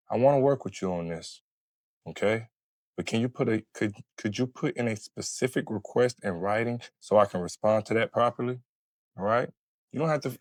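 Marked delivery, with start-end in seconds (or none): 0.1-8.6 calm request. Shown as a demonstration. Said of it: "How about instead of that".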